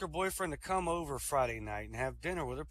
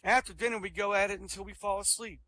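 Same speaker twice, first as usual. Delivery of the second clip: excited boasting; 4 semitones higher, 4 dB louder than usual. Acted. Rabbit boasting about his days.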